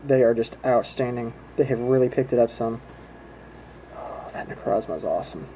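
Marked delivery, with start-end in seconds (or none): 3.9-5.5 hushed then yelling excitement. Real, not acted. Admiring the new rare card.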